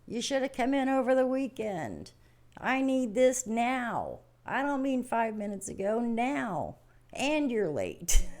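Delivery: high, loud mock boss scolding; demanding boss. Boss running at employee over unfinished work, mock scolding. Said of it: "your boss comes running at you and saying".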